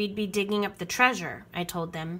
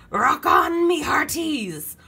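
high, loud pirate rallying cry; Braidbeard bellowing; 6 semitones higher, 7 dB louder than usual. A narrator's reading. Pirate captain to his crew, rousing bellow. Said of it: "bellowed Braidbeard".

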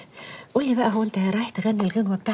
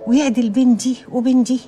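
put-on hushed, half-whispered prayer for each child. Mother prays for her children. (دعاء هامس)

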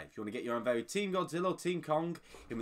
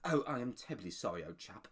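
lightly imitated British politeness, trailing off softly; British gent impression; 5 semitones lower, 5 dB quieter than usual. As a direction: undercut doom with mild British apology. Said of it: "the actor that did the British accent".

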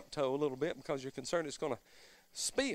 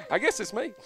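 laughing; 4 semitones higher than usual. Real, not acted. Laughs at himself.

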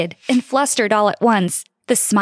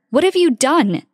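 yell; 5 semitones higher than usual. Acted. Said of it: "my dad yelled at me".

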